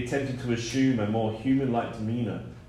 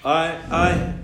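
sobbing stammer; 5 semitones higher, 5 dB louder than usual. A narrator's reading. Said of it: "he began to sob".

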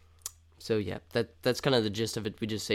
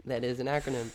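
laughing whisper; much faster than usual. Real, not acted. Laughing after friend's joke.

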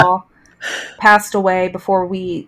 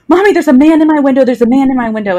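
put-on frightened child; 6 semitones higher, 4 dB louder, faster than usual. Frightened son voiced by mother.

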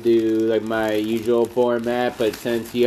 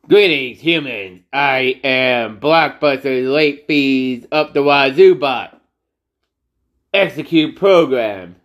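put-on old speech synthesizer. Robot card voice again.

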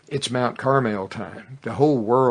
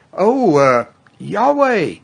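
crowd shout; 10 semitones higher, 11 dB louder, slower than usual. Retold or imitated. Crowd proclaims after fire falls.

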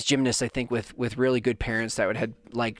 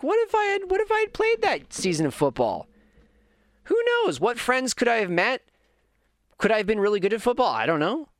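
wondering inner voice; 8 semitones higher than usual. Retold or imitated. Inner what-if voice.

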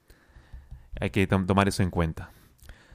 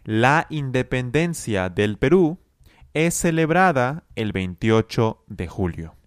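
example read. Shown as a demonstration. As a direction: clear example sentence. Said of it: "Nuestro primer ejemplo es".

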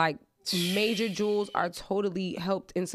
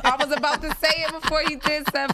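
higher, louder, stretched four four four; excited; 7 semitones higher, 3 dB louder than usual. Real, not acted. Excited guessing the son's food order, higher and louder. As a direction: sing out the order gleefully.

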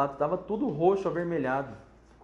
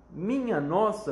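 sudden cry; 5 semitones higher, 3 dB louder, slower than usual. Acted. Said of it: "gritou a senhora Chataclete de repente".

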